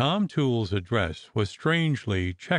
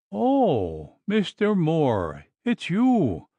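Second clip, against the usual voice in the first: sobbing; 7 semitones higher, much slower than usual. Acted. Wife greeting the barber, high sobbing cry. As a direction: cry out to him through tears. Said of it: "sobbed the poor woman".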